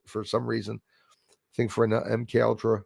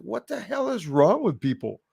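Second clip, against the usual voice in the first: exasperated retort; 8 semitones higher than usual. Retold or imitated. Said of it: "I was like".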